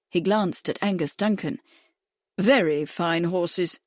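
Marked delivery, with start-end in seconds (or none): 2.4-3.8 slow, weighted stress on Very; emphatic. A narrator's reading. Bradford to the trainer, slowly insisting on Very. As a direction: lean hard on Very, every word slow. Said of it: "he said emphatically".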